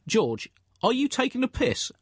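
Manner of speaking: squeaky high outraged retort; mock indignant Musharraf. Musharraf answering Bush on the phone, squeaky high mock outrage. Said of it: "it reads like this".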